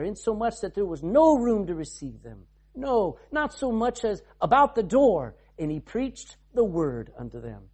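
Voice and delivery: steady King James reading voice; measured Bible reading; scripture reading. Acted. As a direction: read the passage to the church.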